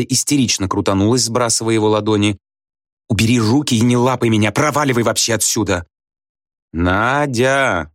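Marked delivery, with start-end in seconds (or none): 3.1-5.9 angry, hysterical. A narrator's reading. Nadya shakes Budkin off. 6.7-7.9 a higher, warning call of her name. A narrator's reading. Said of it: "предостерегающе сказал Слушкин".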